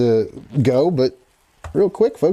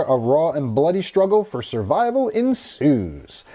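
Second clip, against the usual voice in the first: higher, animated article read-out; horror-movie news presenter delivery; 5 semitones higher than usual. Real, not acted. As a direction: read it out like an entertainment news item. Reads the film synopsis.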